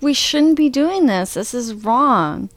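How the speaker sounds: slow, mildly wounded protest; retold hurt. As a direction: voice his hurt objection, stretching the last words. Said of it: "He's really hurt by this".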